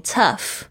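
tough, said slowly with the ending sounded as f; tough pronunciation. Shown as a demonstration. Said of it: "tough是T O U G H". (慢读tough，结尾发f音)

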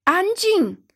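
high, forceful shout for silence; captain's roar. A narrator's reading. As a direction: bellow it as a commanding captain. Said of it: "法拉格特舰长大声吼道". (舰长高声吼令)

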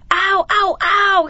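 high, loud yelps of pain; storybook wolf yelling ow from the hot water. A narrator's reading. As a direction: yelp like a scalded wolf. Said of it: "he yelled".

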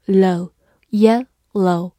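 "yellow" split into two slow syllables; slow, separated syllables in "yellow". Shown as a demonstration. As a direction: sound out "yellow" in parts, slowly. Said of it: "Y E发耶".

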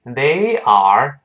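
"they are" slow, each word fully stressed; over-careful full forms. Shown as a demonstration. Teacher shows how nobody talks, over-careful full forms. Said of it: "没有人这么讲话".

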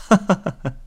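put-on high quick ha-ha-ha of an amused young wife; teasing laugh. Huacheng's wife laughs at the bold young man, quick high teasing laugh. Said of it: "花城娘子笑着说".

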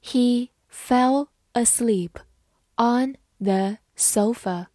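slow, phrase broken into separate words; measured teacher's pace with pauses; slow model reading. Shown as a demonstration. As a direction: read slowly for learners to follow. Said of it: "慢慢来读".

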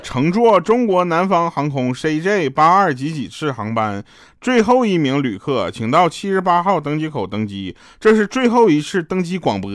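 slow, formal boarding call; airport announcement. Retold or imitated. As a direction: read it like a gate announcer. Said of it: "他是这么说的".

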